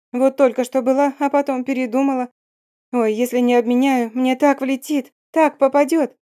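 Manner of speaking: put-on high, coy, fast-talking girlish voice; high affected chatter. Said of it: "затараторила высоким жеманным голосом".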